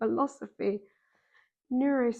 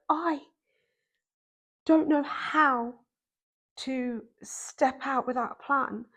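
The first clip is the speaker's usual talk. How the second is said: retold crying; 2 semitones higher, slower than usual. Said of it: "crying uncontrollably".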